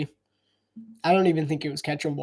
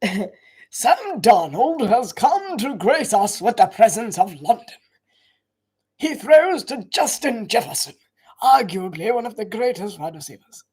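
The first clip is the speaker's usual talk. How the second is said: mock British commentary; 3 semitones higher than usual. Streamer doing London game play-by-play in a light British accent. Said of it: "I would do the all British commentary of the London games".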